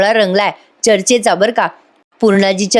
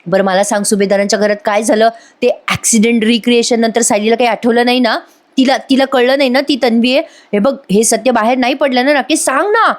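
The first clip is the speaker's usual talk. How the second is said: mild retold yell; 3 semitones higher than usual. Priya questioning Rakesh about where he was, mild mock yell. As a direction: demand answers with a half-hearted yell. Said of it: "Priya ओरडते त्याच्यावर".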